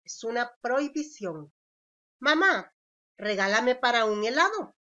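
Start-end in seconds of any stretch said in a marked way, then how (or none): 2.2-4.8 pleading request. Shown as a demonstration. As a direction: beg Mamá for an ice cream, louder. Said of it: "Es una petición".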